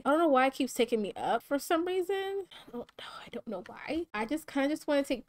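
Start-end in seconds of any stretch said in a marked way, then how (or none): 0.0-4.0 choked-up, whispery murmur; trying not to cry. Real, not acted. Player moved by her sim's graduation, trying not to cry. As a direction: fade to a whisper, holding back tears. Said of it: "I am literally trying not to cry".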